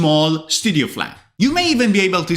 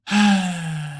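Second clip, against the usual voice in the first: a long, weary acted sigh; heavy sigh. Teacher acting gloomy for the students, a heavy sigh. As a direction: sigh out like nothing matters.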